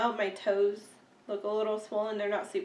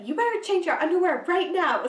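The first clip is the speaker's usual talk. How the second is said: husband voice; 8 semitones higher, 5 dB louder than usual. Retold or imitated. Husband quoted after sneezing accident.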